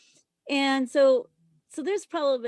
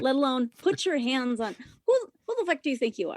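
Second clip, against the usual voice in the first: indignant; faster than usual. Retold or imitated. Confronting man who grabbed her.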